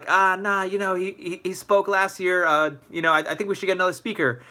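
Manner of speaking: lightly voiced official brushing off a request; dismissive school official. School turning down a student's request, mildly dismissive.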